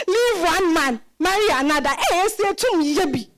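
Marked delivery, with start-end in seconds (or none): 0.1-1.9 laughing mockery. Grandmother repeats, laughing at Esi.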